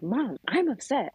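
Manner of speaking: mother imitating her son's slow, swooping protest; upset son. Son protesting to his mom, upset and high. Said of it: "he's like".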